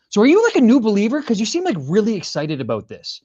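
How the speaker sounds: high, quick voice of a puzzled onlooker; curious questioner. Retold or imitated. Singer imitating people who came up to him, high curious questioning. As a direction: imitate someone asking, pitched well up. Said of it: "other people started to come up".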